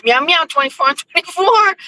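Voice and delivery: high, mocking Portuguese accent; thick Portuguese accent. Blackie mocking her show's name, thick Portuguese accent. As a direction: mimic his teasing in a thick Portuguese accent. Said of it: "with this thick Portuguese accent".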